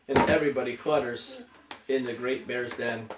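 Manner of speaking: lilting picture-book read-aloud, falling at line ends; story narration. A narrator's reading. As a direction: read a bedtime book to a small child. Reads picture book to child.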